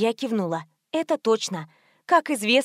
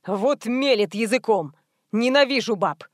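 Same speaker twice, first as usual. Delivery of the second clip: lightly voiced thug.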